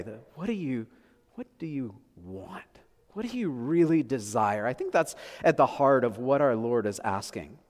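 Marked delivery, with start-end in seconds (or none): 0.3-2.6 quiet question weighted on "want"; stress on WANT. Shown as a demonstration. Pastor repeating the fourth way of asking, stress on WANT. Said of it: "I think the fourth way".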